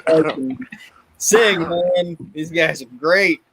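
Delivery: lightly voiced commentator, whispered mid-line; half-whispered aside enjoying the bad singing; Bobby amused. A hint of Bobby enjoying the botched anthem, half whispered. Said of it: "Bobby's just like".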